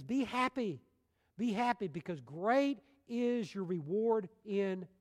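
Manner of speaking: high, emphatic preacher's exhortation; exultant proclamation. Retold or imitated. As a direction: proclaim it slowly, stretching the key words. Preacher exclaims scripture's call to happiness.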